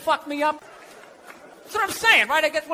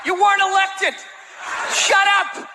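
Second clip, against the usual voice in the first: higher, mock outraged yell; mock angry shout; 6 semitones higher than usual. Comic scolding the president's wife, mock shout. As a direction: tell her off, hammed up. Ranting at the first lady.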